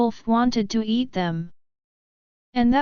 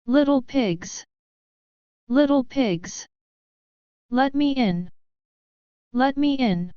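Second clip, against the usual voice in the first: big bad wolf; 2 semitones higher than usual. Wolf calls at the door.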